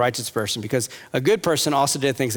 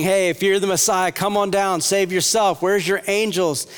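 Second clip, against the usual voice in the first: higher, mocking jeer at the man on the cross; taunting mockery; 6 semitones higher than usual. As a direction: throw the taunt up at him, scornful. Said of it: "where they're taunting Jesus on the cross".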